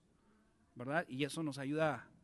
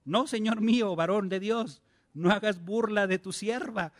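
louder, earnest plea of the woman; pleading woman; 3 semitones higher, 6 dB louder than usual. Acted. Reading the Shunammite woman begging Eliseo, a louder earnest plea. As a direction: cry out her plea to the man of God.

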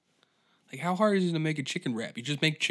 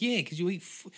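scolding, pitched up high; sarcastic higher-pitched telling-off; mocking scold; 5 semitones higher than usual. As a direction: talk down to a fool. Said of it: "It's like".

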